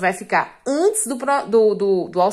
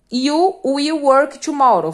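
slow dictation; 2 semitones higher, 5 dB louder, much slower than usual. Shown as a demonstration. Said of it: "teacher dictating example sentence".

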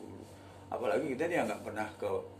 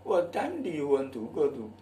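local accent English; 3 semitones higher, 3 dB louder, slower than usual. Shown as a demonstration.

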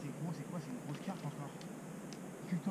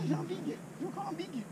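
excited call; 10 semitones higher, 6 dB quieter than usual. Real, not acted. Catching big fish, calling out.

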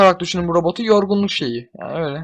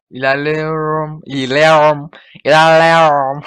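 "ilerliyorum" louder each time; building shout; 8 dB louder, slower than usual. Real, not acted. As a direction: push forward, getting louder. Charging forward, building shout. (yükselen bağırış)

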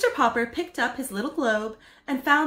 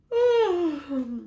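tired sigh; 7 semitones higher, 3 dB louder than usual. Acted. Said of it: "Missus Popper yawned".

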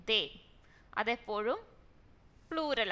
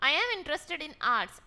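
slow reading; 4 semitones higher, 4 dB louder, much slower than usual. Shown as a demonstration. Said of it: "teacher reads example slowly".

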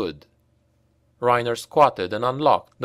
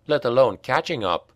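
ordinary delivery

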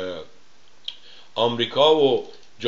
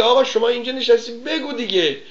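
much higher, louder, pressing question; mocking insistent interviewer; 10 semitones higher, 4 dB louder than usual. Host mimicking the interviewer pressing his guest, high and loud. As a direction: push him hard, mockingly. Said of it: "بعد طرف میگه".

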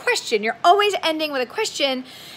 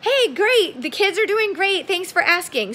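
cheerful reply; 6 semitones higher than usual. Acted. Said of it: "friend answers cheerfully".

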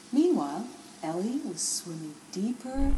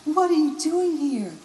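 surprised question; 5 semitones higher, 6 dB louder than usual. Acted. Garnet surprised.

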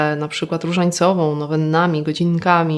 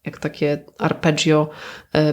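ordinary talk

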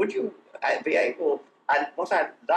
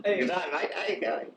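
the Aussie greeting repeated with a light put-on accent, a bit higher; an Englishman playfully doing an Australian accent; a hint of an Australian accent, said higher; mock Australian accent; 5 semitones higher than usual. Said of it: "They say".

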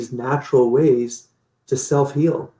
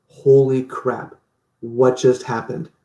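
amazed realization; slower than usual. Retold or imitated. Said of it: "aha moment going".

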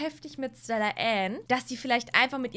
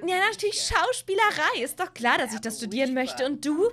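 voiced Sim girl; 3 semitones higher, 4 dB louder than usual. Voicing Sim Stella Ann on date.

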